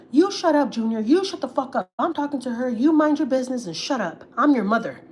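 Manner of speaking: mock the mother-in-law scolding her grown son; imitating a furious mom barking at her son; angry mother-in-law. Mother-in-law quote, shouting at son.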